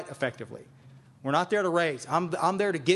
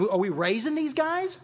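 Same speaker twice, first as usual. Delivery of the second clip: half-laughing, can't believe it; pitched-up exasperated laugh-rant; incredulous; 8 semitones higher than usual. Real, not acted. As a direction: voice jumps high in laughing disbelief.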